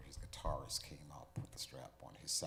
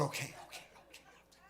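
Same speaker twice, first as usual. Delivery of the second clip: put-on higher, rushed little-boy okays; squeaky hasty okays; 9 semitones higher, much faster than usual. Boy hastily giving in to his irritated mom, high and rushed. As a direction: back down fast, tiny voice.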